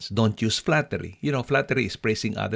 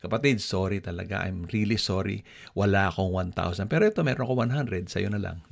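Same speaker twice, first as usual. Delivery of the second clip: kind refusal. Shown as a demonstration. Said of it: "May nangungutang sa'yo".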